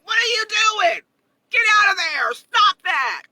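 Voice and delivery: put-on half-playful parent scolding the kids; mock yell at kids. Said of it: "I yell at my kids".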